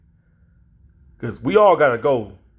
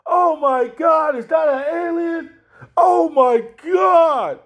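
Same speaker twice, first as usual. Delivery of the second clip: high, slow shrieks of horror; horrified screaming; 13 semitones higher, slower than usual. Retold or imitated. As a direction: scream at a monster baby. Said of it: "everybody gonna be puking like".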